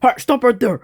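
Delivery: crying out. Acted. Cries out to stop him.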